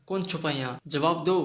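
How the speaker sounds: husband shouting into the empty house, demanding; demanding call. Acted. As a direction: call out to the hidden stranger. Husband demands hidden speaker.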